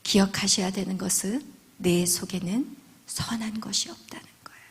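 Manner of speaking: usual speaking voice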